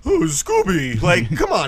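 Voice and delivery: lightly mocking cartoon catchphrase; a hint of cartoon sidekick voice; Shaggy. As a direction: toss out a mock catchphrase. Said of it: "what has Shaggy ever done other than".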